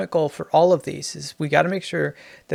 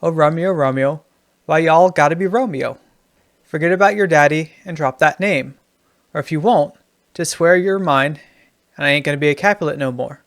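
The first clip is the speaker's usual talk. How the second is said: lightly put-on Southern twang, emphatic; Southern accent; 4 dB louder than usual. Shown as a demonstration. Writing teacher reading Juliet rewritten as a Southerner, mild Southern accent. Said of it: "In the Southern".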